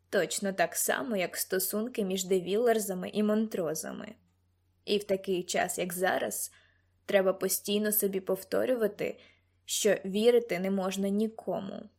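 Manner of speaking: lightly voiced mentor giving a warning; understated fatherly warning; cautioning mentor.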